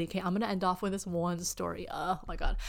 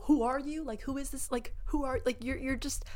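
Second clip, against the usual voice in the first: dismissive disbelief; 6 semitones higher than usual. Acted. Dismissing the ghoster in imagined retort.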